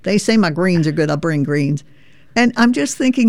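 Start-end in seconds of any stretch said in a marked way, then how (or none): 0.0-1.8 folksy Tennessee veteran teasing a Yankee; lightly voiced Tennessee accent; Tennessee drawl. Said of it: "here is Hobart saying".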